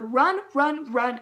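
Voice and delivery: mock yell of warning; retold yell. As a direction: call out quick repeated warnings. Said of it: "and I just yell".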